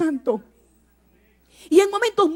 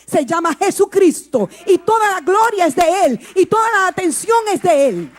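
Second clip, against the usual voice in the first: louder with each line, proclaiming; rising preaching shout; 5 dB louder than usual. Acted. Preacher to the congregation, a loud building proclamation. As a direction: drive it home to the church.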